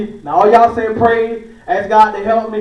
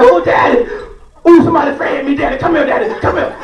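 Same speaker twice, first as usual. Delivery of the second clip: put-on scared little boy; 4 semitones higher than usual. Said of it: "Josh be like".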